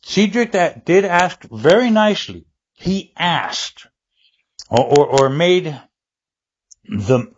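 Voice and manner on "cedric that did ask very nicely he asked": whispered through a drag; talking while holding smoke in; cigarette in mouth. Real, not acted. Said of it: "Hold on, I gotta light this cigarette".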